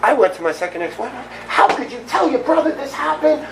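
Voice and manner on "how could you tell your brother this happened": retold accusing question. Confronting ex-wife, retold.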